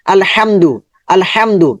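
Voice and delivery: short unheld m in "আলহামদু"; quick, no ghunnah. Shown as a demonstration. Teacher shows a no-ghunnah word, said quickly. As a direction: say "আলহামদু" with the m passed quickly, no held hum. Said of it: "গুণনা না হলে দ্রুত করতে হবে".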